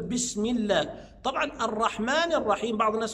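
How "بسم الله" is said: "الله" with a thin l after kasra; light lam. Shown as a demonstration. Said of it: "لأن الميم مكسورة فأقول". (ترقيق لام "الله" بعد الكسر)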